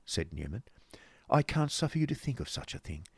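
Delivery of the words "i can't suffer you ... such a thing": high, softer protesting lady; genteel objection in a high voice; Missus Nickleby. Acted. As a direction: politely refuse in a raised pitch. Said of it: "said Missus Nickleby".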